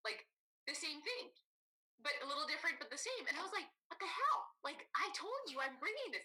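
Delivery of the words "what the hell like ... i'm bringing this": higher, indignant retold rant; mock angry outburst. Retelling her hangry blowup, a mock angry outburst. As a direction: replay the furious text to friends. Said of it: "I went total crazy, like, angry".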